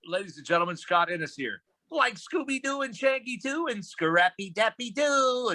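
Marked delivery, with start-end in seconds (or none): 1.9-5.5 character voice flash. Acted. Listing his characters.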